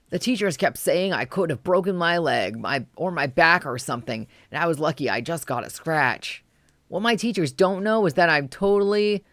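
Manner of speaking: put-on an excited little boy bragging about his day; excited kid's diary. Kid diary voice continues.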